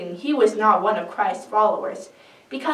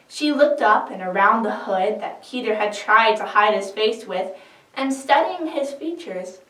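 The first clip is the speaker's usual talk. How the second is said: plain reading voice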